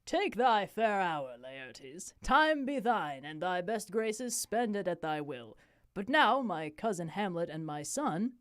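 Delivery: stately, lightly declaimed verse; slow down into royal address; formal dramatic reading. Acted. King granting Laertes leave, slow formal dramatic reading. Resumes the King's part.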